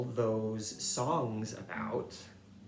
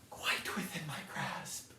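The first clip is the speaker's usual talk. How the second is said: whispered; 3 semitones higher, 5 dB quieter than usual. Real, not acted. Whispered admission.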